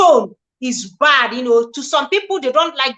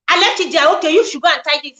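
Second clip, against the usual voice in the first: mock bossy order; faster than usual. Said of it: "if you had said".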